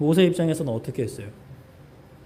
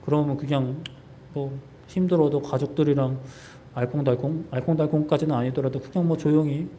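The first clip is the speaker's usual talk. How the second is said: mild complaining. Acted. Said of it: "라고 따지는 거예요".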